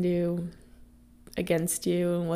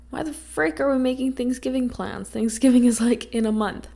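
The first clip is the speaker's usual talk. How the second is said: higher, lightly exasperated retold reaction; mock incredulous; 5 semitones higher than usual. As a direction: act out mild disbelief, pitch raised. Retelling own baffled reaction to coworker.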